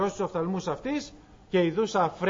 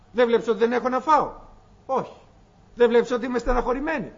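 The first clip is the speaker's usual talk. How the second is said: faster, louder, rising exasperation; building complaint; 3 semitones higher, 4 dB louder, faster than usual. Acted. Hagar hurling complaints at God, fast and louder. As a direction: pile up the grievances quickly.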